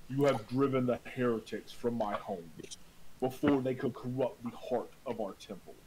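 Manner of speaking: lightly voiced ghostly priest. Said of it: "when I do his voice".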